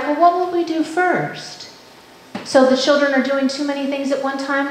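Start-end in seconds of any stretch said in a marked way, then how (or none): 0.0-1.7 higher, slow, musing question; modeling a question. Shown as a demonstration. Teacher models a wondering question to parents, higher and slow. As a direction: ask it slowly, wondering aloud. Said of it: "So the questions are things like".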